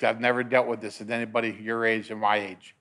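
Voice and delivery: low, hushed bad news; grave doctor. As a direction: break it to the patient quietly and low. Doctor breaking bad news, retold.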